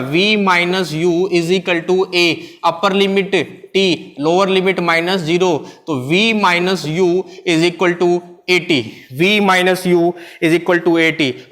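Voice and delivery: slow, word by word, for students to write down; slow dictation. Acted. Teacher dictating a definition to the class, slow and deliberate. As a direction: dictate it slowly so the class can copy.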